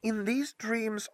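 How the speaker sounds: slow and quiet; slowly. Acted. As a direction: ease it out slowly. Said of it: "She spoke slowly".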